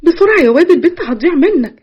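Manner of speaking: laughing urging. Acted. Nargis laughs as she pushes Yassin to chase the girl. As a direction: tease him into hurrying.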